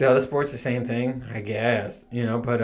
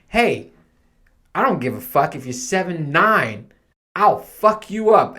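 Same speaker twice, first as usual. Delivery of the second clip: louder, higher, slowing on the threat; mock tough guy; 5 semitones higher, 4 dB louder than usual. Short dad squaring up to giant fathers, mock tough threat. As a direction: puff up and threaten, half joking.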